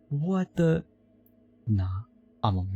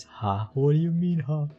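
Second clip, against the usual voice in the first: mock question; 5 semitones higher, 4 dB louder than usual. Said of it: "It was always".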